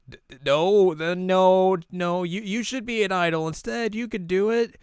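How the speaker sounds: high, stammering put-on girl voice; flustered deflection. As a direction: stammer it out high, then cheer them on.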